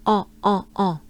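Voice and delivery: on said nasal, like the end of restaurant; French nasal on. Shown as a demonstration. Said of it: "point out the sound on".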